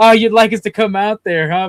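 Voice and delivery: mock gloating, loud sadistic needling taunt. Retelling a South Park scene, imitating the sadistic South Park cable company. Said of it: "Being all sadistic and shit".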